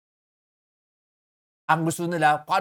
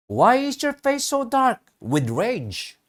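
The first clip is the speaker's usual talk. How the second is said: the Lord asking; 8 semitones higher, 4 dB louder, slower than usual. Acted. Preacher voicing the Lord's question.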